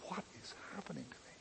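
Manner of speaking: very soft, near-whispered inner thought; barely audible retold question; hushed bewilderment. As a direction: drop right down, as if asking yourself in awe. Retold overwhelmed thought while leaning over.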